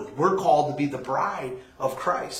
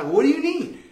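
bright, loud eager helper; all keen to help a friend; eager offer; 6 semitones higher, 3 dB louder than usual. Retold or imitated. Speaker eagerly offering Brandon help, then loud and laughing.

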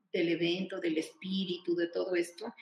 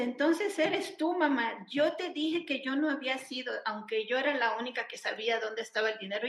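put-on old woman addressing her mother; 4 semitones higher than usual. The old lady speaks to mom.

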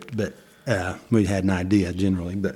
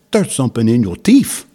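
mock announcement; 3 semitones higher, 8 dB louder than usual. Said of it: "and I said".

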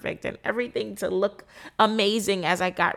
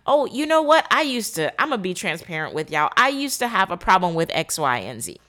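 breezy transparency. Pretend. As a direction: toss it off like old news. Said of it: "That's transparent".

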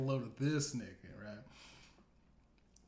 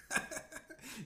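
breathy laugh; 12 semitones higher, 6 dB quieter than usual. Real, not acted. Laughter trails off.

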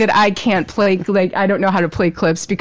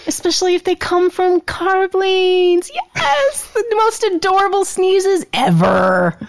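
high, gushing delight; 9 semitones higher than usual. Real, not acted. Host gushing to guest about her sneezes, high and delighted. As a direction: squeal over the adorable sneezes.

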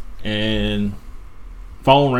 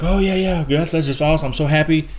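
higher-pitched, mildly excited wife; a touch of delighted gushing, pitched up; 4 semitones higher than usual. Acted. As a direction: lightly act out a thrilled wife. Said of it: "the woman gets all excited".

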